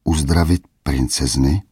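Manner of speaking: disbelieving rising question, lightly voiced; can't believe his ears; incredulous question. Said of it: "nerozuměl král". (nevěřícná otázka krále, jen naznačená)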